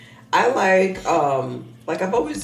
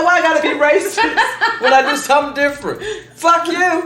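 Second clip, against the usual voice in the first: put-on Chinese accent; 13 semitones higher, 9 dB louder than usual. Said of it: "if I do a Chinese accent".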